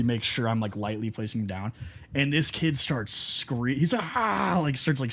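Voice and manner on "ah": short high-pitched imitated scream; mild mock scream. Retelling the kid set down on nettles, mock scream. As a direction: mimic a kid's scream without full volume.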